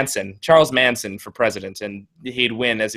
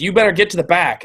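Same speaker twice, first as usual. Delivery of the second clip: mild mock yell, higher pitched; raised voice, only lightly hollered; imitated yelling; 5 semitones higher than usual. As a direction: imitate a protester ordering reporters around. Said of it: "she's yelling at the reporters".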